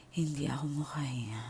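whispered, struggling for air; hushed plea that you cannot breathe; breathless whisper. Retold or imitated. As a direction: barely get the words out. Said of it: "Ganun na lang ako".

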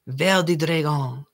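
put-on French accent. Shown as a demonstration. Canadian crafter reading the potion label, amateur French accent. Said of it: "That is my French accent".

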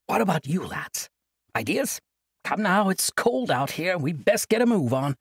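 put-on high-pitched cheerful old monk brushing it off; jovial old monk. Old monk cheerfully refusing Kasai's plea, jovial. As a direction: laugh off the burden like a merry elder.

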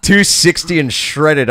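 breaking into laughter at the memory; laughing. Real, not acted. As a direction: crack up mid-sentence. Laughing while describing the guy.

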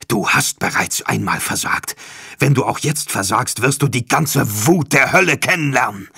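a villain's swelling threat; menacing demon voice. Acted. Demon leader threatens Charbadan. (drohender Dämon, lauter werdend)

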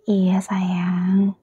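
breathy hush of comfort; tender whisper. Acted. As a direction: whisper it close and gentle. Comforting crying partner.

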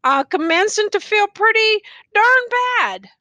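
lightly voiced weary old soldier, musing; a hint of a rough country soldier, wondering aloud; tattered soldier. A narrator's reading. Tattered man, feeling worse.

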